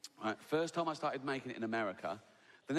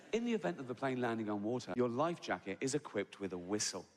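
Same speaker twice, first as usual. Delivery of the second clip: calm hypnotic voice; 3 semitones lower than usual. Retold or imitated. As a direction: soothe the passengers, unhurried. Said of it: "that calm, hypnotic voice".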